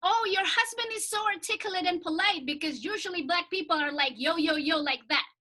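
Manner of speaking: imitating a gushing friend. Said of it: "Let me say it in English".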